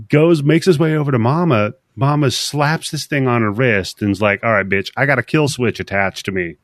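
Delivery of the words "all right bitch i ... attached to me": menacing villain. Retold or imitated. Mama threatens with kill switch.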